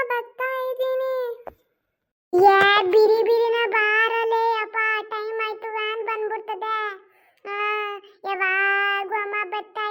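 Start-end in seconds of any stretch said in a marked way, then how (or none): 2.3-4.8 slow, loud call to hurry up. Acted. Mother calls her son to hurry for the van, loud and slow. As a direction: call him across the house, drawn out and loud.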